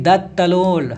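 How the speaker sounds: lisping दस तलोल, with the kr softened to t and r to l; movie girl's lisp. Retold or imitated. Teacher quoting the Dhamaal girl's line, mild childish lisp. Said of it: "बोलती है".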